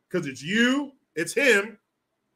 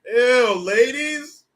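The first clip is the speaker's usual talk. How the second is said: loud, high disgusted "ew"; disgusted shout; 7 semitones higher, 10 dB louder, much slower than usual. Real, not acted. Disgusted at ladies oozing.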